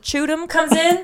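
choot 'em with ch, rising at the end; Louisiana choot. Shown as a demonstration. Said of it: "the word choot".

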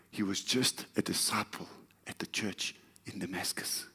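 whispered aside to the congregation; hushed aside. Real, not acted. Preacher whispering a detail to the church.

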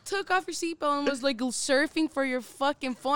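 excited retelling. Real, not acted. Retelling a near crash.

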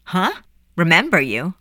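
put-on puzzled, questioning boy; bewildered query; confused. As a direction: question it, not understanding. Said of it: "Edgar was confused".

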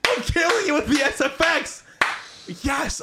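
high, hammed-up triumphant shouts; hyped-up yelling. Host showing off sound effects, high excited yelling. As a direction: yell it way up high, playfully.

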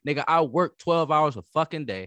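mock-defiant hustler who can't afford dreams; devil's advocate rant. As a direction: push back hard, playing the other side on purpose. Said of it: "trying to play devil's advocate".

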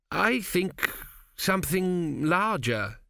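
hopeless venture. A narrator's reading. Young king Tepic hopelessly suggests a bigger pyramid. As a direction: offer it knowing it's already lost. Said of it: "he ventured hopelessly".

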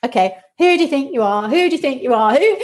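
expressed critic voice. Shown as a demonstration. Clown exercise, expressing the inner critic aloud. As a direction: say it out freely, playing. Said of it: "Then you express it".

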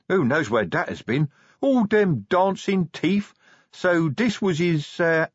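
muddled troll interrupting his own train of thought; addled troll, rambling. Acted. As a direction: ramble through bad memories as a dazed troll.

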